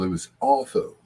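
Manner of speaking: lightly put-on British accent; Simon Cowell. Explaining his best Simon Cowell, lightly British accent. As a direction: say it as a British judge would. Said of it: "my best Brit-, British voice".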